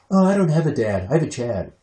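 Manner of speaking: lightly voiced cartoon kid; a hint of a little boy's put-on voice; Clarence. Dad quoting a cartoon boy about mom's boyfriend, light kid voice. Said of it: "So he's always like".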